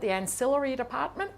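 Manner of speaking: a light imitation of the old IBM presenter's accent on "the ancillary department"; his accent. Lecturer imitates IBM film presenter's accent for students, lightly mimicked. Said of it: "if I were to do his accent".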